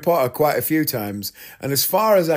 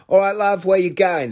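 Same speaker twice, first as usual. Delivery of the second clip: higher-pitched Cockney cabbie impression; Cockney driver's greeting, pitched up; Cockney accent; 5 semitones higher than usual. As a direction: do a chirpy Cockney taxi driver. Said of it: "He's got, like, a Cockney accent".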